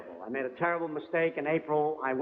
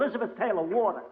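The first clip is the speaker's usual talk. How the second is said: building mock yell, rising higher each time; yelling in the theatre; 8 semitones higher than usual. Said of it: "started yelling".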